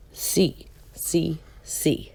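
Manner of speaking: soft whispered letters. Acted. Reading an alphabet book aloud to a child, whispered. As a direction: breathe the letters out like a secret.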